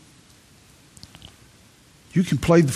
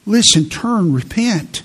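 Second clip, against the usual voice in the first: preaching at full force; 3 semitones higher, 3 dB louder than usual. Acted. Pastor warns young listeners to repent, preaching hard. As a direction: drive the warning home. Climax of the scripture call.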